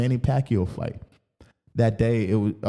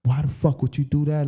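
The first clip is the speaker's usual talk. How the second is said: higher-pitched, restrained mock outrage; retold cussing out; 4 semitones higher than usual. Cussing girlfriend out after confession, mildly angry retelling. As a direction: imitate snapping at her, without shouting. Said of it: "just started cussing her out".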